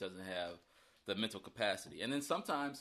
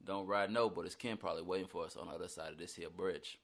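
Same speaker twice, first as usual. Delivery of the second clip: Southern country accent; 4 semitones lower than usual. Shown as a demonstration. Actor performing his film line in a Southern accent. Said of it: "just read your line".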